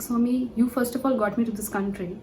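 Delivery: mildly angry complaint to a guru; a touch of indignant pleading, retold; retold angry protest. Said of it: "I was fighting with him".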